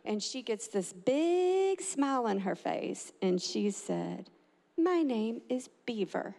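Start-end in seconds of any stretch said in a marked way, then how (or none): 4.8-6.3 drawn-out, measured words; slow, deliberate announcement. Retold or imitated. Girl giving the judge her pretend name, slow and deliberate. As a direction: imitate a child announcing it slowly. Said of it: "Just like that".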